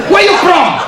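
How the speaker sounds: high, loud, laughing mock of the officer; mocking broken English. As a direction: ham up the officer's bad English. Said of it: "Lu salah banter".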